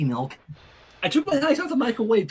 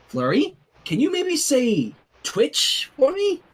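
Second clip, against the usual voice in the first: put-on coaxing a baby; 5 semitones higher, slower than usual.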